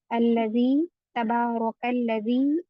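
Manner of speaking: अल्लज़ी then तबारकल्लज़ी read slowly with the vowel drawn out; recitation demo. Shown as a demonstration. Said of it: "ऐसे पढ़ना है".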